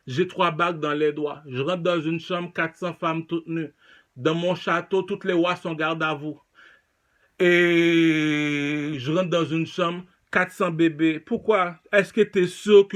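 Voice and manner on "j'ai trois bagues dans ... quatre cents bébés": lightly voiced king bragging; king's boast. King bragging about his riches, lowered voice. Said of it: "Il te leur dit, le roi".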